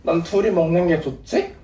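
살짝 얌전한 전화 말투; 오빠에게 조심스럽고 나긋하게; 내숭 전화 목소리. Real, not acted. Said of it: "원래 평소에 목소리 걸걸하잖아". (은근한 내숭 목소리)

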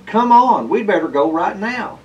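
high, loud urging; eager. A narrator's reading. Cat urging Festus to go shopping now, eager. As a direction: hurry him along impatiently. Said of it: "said Mercury eagerly".

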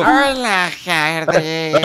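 tío Paco. Pretend. Impostor greeting Hardred at the shop, put-on loud voice. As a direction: belt out a disguised, over-the-top greeting. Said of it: "tengo que poner la voz del tío Paco".

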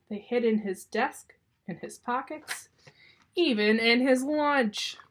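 put-on lively storytelling for children; story read-aloud. A narrator's reading. Reader tells children of Uncle Fred's snakes, lively narration. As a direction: read it expressively, savoring each phrase.

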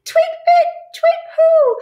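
high, loud hooting owl; shrill panicked owl call. Acted. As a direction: hoot like a startled owl. Owl hoots in fright.

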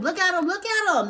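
building teasing exclamation; rising mock glee. Real, not acted. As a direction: climb in pitch, teasing. Mocking the partying ex.

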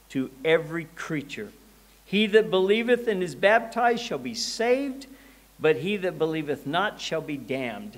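measured, emphatic Bible reading; solemn reading with deliberate phrasing; scripture reading. Acted. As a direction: proclaim the verse to a congregation. Reads scripture aloud.

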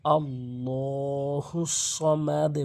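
slow আল্লাহু সমাদে with an echoing qalqala on দ; slow সমাদে with the দ echoed downward; slow correct recitation. Shown as a demonstration. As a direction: stretch it out and bounce the দ down. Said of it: "বলতে হবে".

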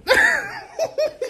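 a high, squealing burst of laughter. Real, not acted.

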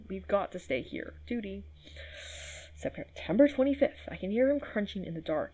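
reading a journal entry aloud, a touch voiced; diary reading. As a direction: read the note like the patient's private diary.

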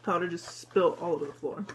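talking between bites; chewing while talking. Real, not acted. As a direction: mouth partly full of donut. Seen 2: Holds powdered donut, mouth pursed as if chewing after bites.

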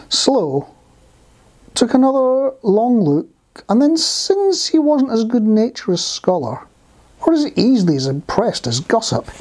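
put-on deliberate, projected children's storytelling; story narration. A narrator's reading. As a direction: build up to the tricky question.

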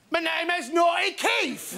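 put-on slow, shouty puppet boy; a hammed-up naughty puppet introducing himself; cheeky ventriloquist puppet, lightly voiced. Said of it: "What is your name?".

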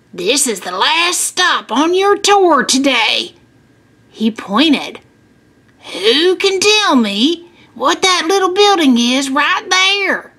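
lightly voiced farmer showing kids around; friendly farmer tour guide. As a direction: talk to children on a farm tour. Farmer addresses the class.

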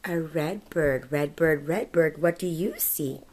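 slow sing-song book reading; reading to a toddler. Acted. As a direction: read it like a bedtime picture book. Reading picture book aloud.

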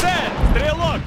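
quick loud battle bark; shouted callout. Acted. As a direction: call the target out hard. Combat callouts in game.

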